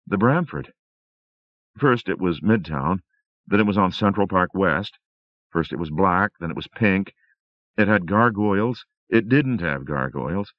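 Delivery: a lightly voiced wife, still shaken; Rosemary voice.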